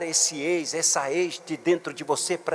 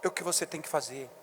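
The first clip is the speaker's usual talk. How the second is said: intimate appeal; 3 semitones lower than usual. Real, not acted. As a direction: lean in and speak gently to one person. Intimate appeal after shouting.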